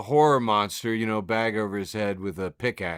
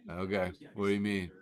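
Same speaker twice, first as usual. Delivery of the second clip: hushed, breathy-free whisper of disbelief; 4 semitones lower, 8 dB quieter than usual. Real, not acted. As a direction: drop to a whisper, barely voiced. Whispered reaction to meme.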